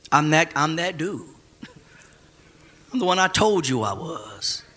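chuckling through the words; laughing. Real, not acted. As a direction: laugh while you say it. Laughing paraphrase of Jesus.

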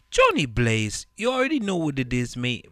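loud, fast hype intro; hype shout. Acted.

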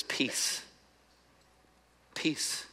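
Jesus hushing frightened friends in a whisper; whispered peace. Retold or imitated. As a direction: breathe the word gently, almost no voice. Jesus calming locked-in disciples.

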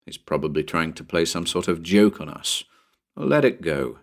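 mildly soothing, understated. Acted. Bill calms his friend on the roof, soothing. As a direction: talk the friend down gently. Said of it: "Bill said soothingly".

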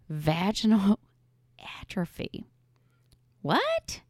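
hushed whisper, then a sharp high "What?"; whispered question. Retold or imitated. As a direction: breathe it out, then jump up in pitch. Doctor repeating diagnosis.

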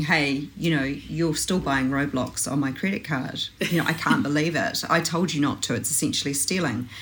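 put-on mildly annoyed parent telling off a child; understated exasperation in a retold scolding; lightly acted irritated reprimand. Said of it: "with my annoyed voice on".

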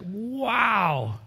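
high, long drawn-out wow; awestruck new convert. Retold or imitated. Imitating the newly saved after conversion, awestruck. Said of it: "we're just like".

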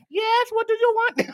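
high-pitched mock irritation; exasperated reply. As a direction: answer a pestering caller in put-on exasperation. Acting own irritated radio answer.

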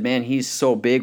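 understated acted discouragement; daunted soldiers. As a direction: say it as an impossible obstacle.

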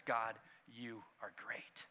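slow, hushed whisper of wonder; awed whisper. Acted. Someone at the Grand Canyon praising God, a slow awed whisper. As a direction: breathe it out slowly in awe. Awe before God's creation.

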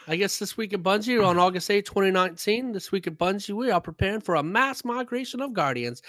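accent sliding from mock British into Southern; put-on British to Southern. Host reading the weekly news, wobbly British-to-Southern accent. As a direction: start British, drift into a Southern twang. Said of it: "went from British to Southern".

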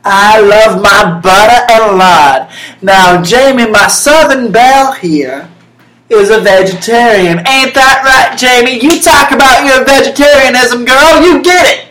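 hammed-up southern cooking host hosting her show; Paula Dean impression. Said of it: "welcome to Getting Sassy with Paula Dean".

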